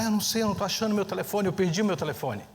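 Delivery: put-on a panicked teen blurting it out fast; anxious daughter.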